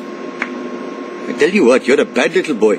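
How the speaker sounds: put-on low, hushed scolding of a naughty boy; a hint of a disapproving shopkeeper; mock scolding. Shopkeeper teasing Bart about his wicked streak, hushed scolding.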